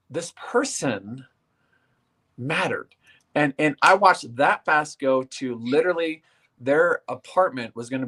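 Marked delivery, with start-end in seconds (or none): 0.1-2.9 emotional. Real, not acted. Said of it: "I got really emotional about this".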